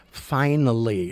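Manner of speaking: finally stretched slowly; slow, savoured finally; drawn-out finally. Shown as a demonstration. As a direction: drag out finally. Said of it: "And finally".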